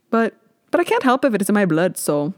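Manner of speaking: badly faked Scottish accent. Podcaster excusing her habit to listeners, in a bad Scottish accent. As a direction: have a poor go at a Scottish accent. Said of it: "That was such a bad accent".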